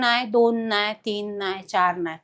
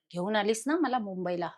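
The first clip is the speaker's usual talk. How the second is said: lightly lowered, softer voice of a man speaking through her; possessed male voice; 4 dB quieter than usual. Retold or imitated. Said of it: "आणि तो आवाज पुरुषाचा".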